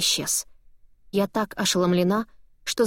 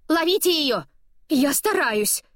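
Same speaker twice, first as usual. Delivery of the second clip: breathless high cry; 8 semitones higher, slower than usual. A narrator's reading. Running after paper, gasping.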